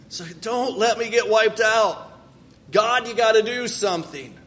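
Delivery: insistent, rising demand to God; bold plea. Acted. Jacob boldly reminds God of his promise, urgent. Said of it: "this sense of boldness".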